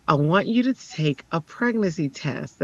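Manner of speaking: lightly imitated calm counselor, measured words; a touch of deliberate, even calm. Counselor suggesting a pregnancy test, mildly deliberate and calm. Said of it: "she's so calm".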